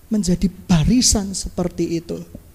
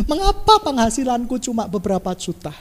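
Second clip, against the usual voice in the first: blaming complaint; 6 semitones higher than usual. Retold or imitated. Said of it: "dia mulai nyalakan Tuhan".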